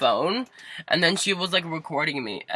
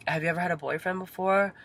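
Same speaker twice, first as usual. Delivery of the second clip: higher, prying mom voice; imitated mom; 4 semitones higher than usual. Mom quizzing child about past relationships, imitated mom. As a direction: lightly mimic mom's questioning.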